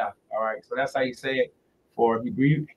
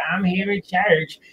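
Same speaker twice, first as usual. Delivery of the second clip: mock bored churchgoer; 4 semitones higher, slower than usual. Mocking passive churchgoer.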